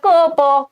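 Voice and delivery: क and प drawn out as bare sounds; long, meaningless baby sounds क, प; cooing sounds. Shown as a demonstration. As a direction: imitate cooing with a stretched क, प. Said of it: "बस आवाज निकालना".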